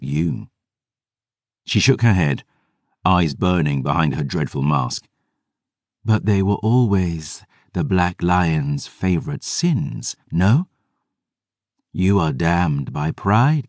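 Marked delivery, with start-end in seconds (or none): 6.0-13.7 cold Selene voice. Acted. Selene speaks, cold and measured.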